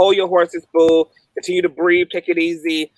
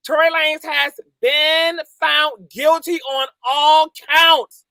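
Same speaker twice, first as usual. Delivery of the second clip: excited announcement; 4 semitones higher, slower than usual. Real, not acted. Repeating verdict.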